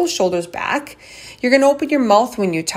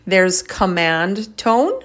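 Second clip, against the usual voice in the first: TONE drawn out slowly; command tone; slower than usual. Shown as a demonstration. Speaker contrasting two tones for listeners, slow command tone. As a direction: stretch "command tone" slowly as a named option. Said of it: "You could see the inflection in my voice".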